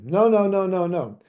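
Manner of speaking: put-on short sharp no's like stopping a child; prohibition tune. Shown as a demonstration. Lecturer demonstrates mother forbidding infant, staccato. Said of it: "Then there is prohibition".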